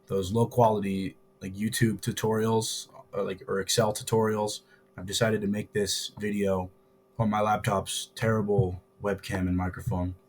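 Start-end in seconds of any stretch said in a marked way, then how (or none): 5.0-10.1 hoarse, sore throat voice; talking through a sore throat. Real, not acted. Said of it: "sorry if I sound a little weird. I have a sore throat".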